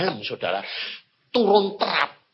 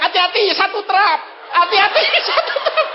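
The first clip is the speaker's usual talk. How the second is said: retold warning; 9 semitones higher, 5 dB louder, faster than usual. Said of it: "Lalu saya bilang".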